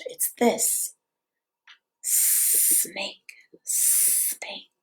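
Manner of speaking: soft whisper while signing; whispered sign-along. Real, not acted. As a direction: hush the word like a secret. Shows sign language to toddler.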